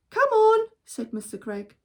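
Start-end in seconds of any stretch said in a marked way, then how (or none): 0.1-0.7 loud, high encouraging call; urging call. Acted. Father urging family out the window, loud. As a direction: urge them on.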